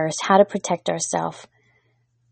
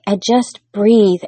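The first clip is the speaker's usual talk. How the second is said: slow breath; 3 dB louder, slower than usual. Shown as a demonstration. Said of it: "I wanna share with you today".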